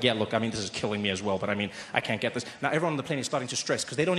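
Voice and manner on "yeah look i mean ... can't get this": lower, gruff health official; a hint of a worried official, voiced low; official's voice. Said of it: "He's like".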